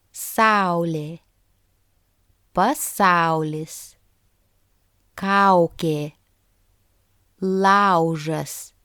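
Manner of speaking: "au" in "Saulė" and the rest with a prominent open a; careful word list, leaning on the a of "au"; stress on first vowel. Shown as a demonstration. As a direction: say "laužas" with weight on a before the u. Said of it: "stress falls on the first vowel sound a".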